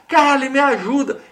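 loud, high-pitched cry for help; calling out for help. Acted. Client yelling to the host for help, high loud call. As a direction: shout it out like someone calling for help. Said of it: "grita lá, ó".

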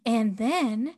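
slow, lightly mocked pageant-princess recital; a hint of a scripted beauty-queen speech, drawn out. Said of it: "some pageant princess".

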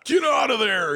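high, drawn-out shout; mock angry yell. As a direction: holler at someone hiding inside. Mimics man yelling at porta potty.

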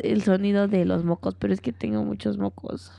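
talking through a stuffy nose; blocked nose. Real, not acted. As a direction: speak with a congested blocked nose. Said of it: "es que no puedo respirar".

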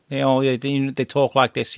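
lightly attempted Liverpool Scouse; Scouse accent. Shown as a demonstration. Actor demonstrating a dropped role, Scouse accent. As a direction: show how Scousers talk. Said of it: "I was gonna go Scouse".

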